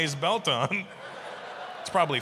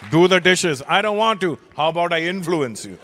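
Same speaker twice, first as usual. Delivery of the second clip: mock father and kid; 2 semitones higher, 7 dB louder than usual.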